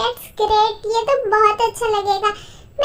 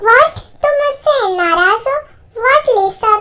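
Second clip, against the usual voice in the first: shocked; 3 semitones higher, 4 dB louder, slower than usual. Acted. A singer reacting to another singer's anger, surprised. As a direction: caught off guard by her anger.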